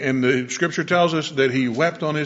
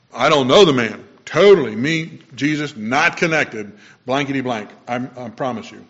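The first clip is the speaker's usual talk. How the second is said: rude angry denial; 4 dB louder than usual. Retold or imitated. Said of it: "very clearly and rudely".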